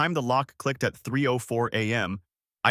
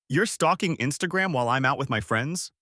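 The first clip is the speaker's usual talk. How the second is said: climbing anger; 3 semitones higher than usual. Acted. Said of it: "voice already climbing".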